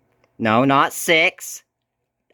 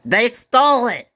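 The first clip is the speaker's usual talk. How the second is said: high, loud startled exclamation; surprised outcry; 10 semitones higher, 5 dB louder than usual. Real, not acted. Vlogger yelps as the radio's siren goes off, surprised outcry. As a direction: blurt it out in real shock.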